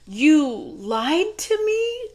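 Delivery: high, slow, drawn-out squeaky accusation; hammed-up Mushu whine; Mushu impression. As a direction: stretch it out like an outraged little dragon. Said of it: "Mushu says".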